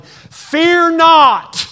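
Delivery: loud, high bark of a harsh father; harsh yelling dad. Retold or imitated. Harsh dad to scared child, loud yell. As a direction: bellow it like a fed-up dad. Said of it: "Dad can bust in the room".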